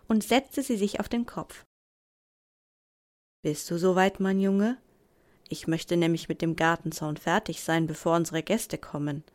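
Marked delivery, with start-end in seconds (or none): 3.4-9.2 a hint of a low, deep dad; lightly voiced father, lower. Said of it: "sagte eine dunkle Stimme".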